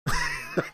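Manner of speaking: short high burst of laughter; laughing. Real, not acted. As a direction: break into a laugh. Laughs at own impression.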